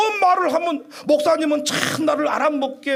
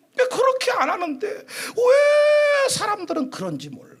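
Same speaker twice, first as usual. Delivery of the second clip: exasperated cry; 8 semitones higher than usual. Real, not acted. Preacher crying out at the congregation's suspicion. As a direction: cry it out in disbelief.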